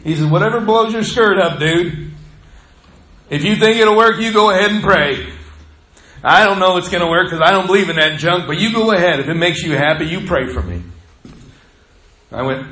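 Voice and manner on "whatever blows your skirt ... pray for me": mock a skeptic, louder and higher; loud, scoffing go-ahead; sarcastic dismissal. Skeptical patient waving off the preacher's prayer, sarcastic. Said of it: "sarcastic comment to me".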